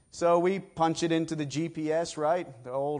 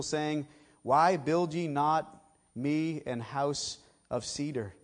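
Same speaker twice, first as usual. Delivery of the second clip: scripture reading. Acted. Preacher reading God's words to David aloud. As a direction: read the old verses with weight.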